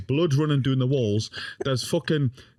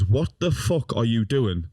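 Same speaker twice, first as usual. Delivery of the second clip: drawn-out question at usual pitch; slow motion; slower than usual. Retold or imitated. Grandson retelling the moment time slowed, in slow motion. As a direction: replay the question slowly, word by word. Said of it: "everything went in slow motion".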